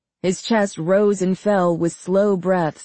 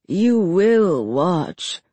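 slow menacing insistence; much slower than usual. Acted.

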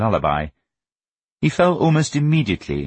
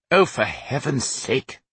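slow, pitched-up exasperation; exasperated father; 6 semitones higher, slower than usual. A narrator's reading. Father fed up with son's speeches, exasperated. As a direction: groan the words out in impatience.

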